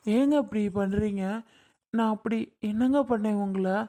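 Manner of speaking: tearful pleading. Acted. New bride to husband who rejects her, tearful and pleading. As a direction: plead with him as if about to cry. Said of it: "இப்ப எதுக்கு நீ அழுதுகிட்டு இருக்க?".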